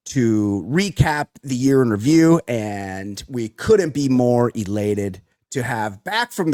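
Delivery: mock ceremonious. Mock grand guest introduction.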